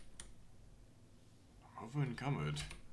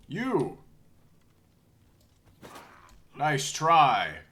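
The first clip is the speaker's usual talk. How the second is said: hammy battle cries; 5 semitones higher, 13 dB louder, much slower than usual. Acted. Shouting in combat in character.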